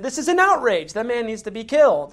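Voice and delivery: a touch of a king passing judgment; mock furious verdict; indignant king. David condemns the rich man.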